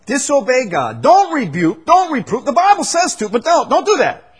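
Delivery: high, loud sarcastic mockery; mock them by spelling it out; sarcastic parody.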